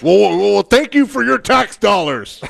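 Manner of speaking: sarcastic. Retold or imitated. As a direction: gloat with a sly sneer. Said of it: "And this other guy goes".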